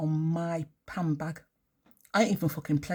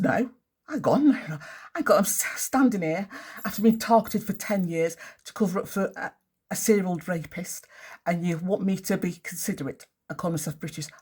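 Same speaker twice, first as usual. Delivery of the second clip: retold defiance. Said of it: "And I said".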